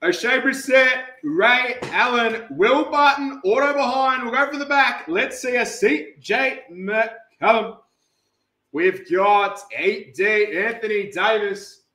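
stretched-out roll-call of names; lively card-break announcing; announcer call. Acted. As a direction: call each player to the room.

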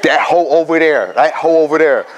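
lightly voiced teen girl pointing someone out; a hint of a dismissive schoolgirl; imitating a teen girl. Teen girl to her teacher, pointing at a classmate, lightly voiced.

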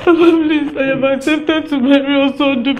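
crying as she begs her father; begging through tears; tearful pleading. Acted. Daughter begging her father through tears.

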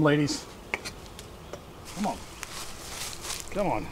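usual speaking voice

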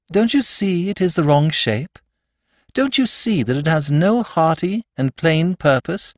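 high-pitched, insistent pleading; crying out. A narrator's reading. Priest urging them about the knife, crying out. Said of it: "cried Father Brown".

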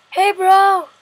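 high, loud hey bro; cheery shouted hey bro; excited greeting. Real, not acted. Greeting a mob playfully.

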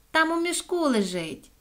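high-pitched call downward. A narrator's reading. Соня lures the echo to the sack, calling out. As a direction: call it down the hole. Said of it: "крикнула Соня".

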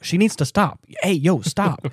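calling out to stop her. Retold or imitated. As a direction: shout over to her, stop her. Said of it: "he's like".

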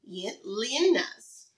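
slowly sounding out "Yin-, Linnas" syllable by syllable; unsure sounding out. Shown as a demonstration. Teacher sounding out the author's name for the class, unsure and slow. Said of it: "I don't know how to say that last".

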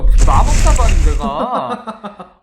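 loud laugh through the words. Real, not acted. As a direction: burst out laughing while speaking. Laughing disbelief at the messages. (웃음 터진 채로 크게)

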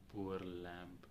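very soft, low mock pity; hushed, insincere sympathy. Real, not acted. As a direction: drop low and quiet with sarcastic pity. Sarcastic pity for the volunteer.

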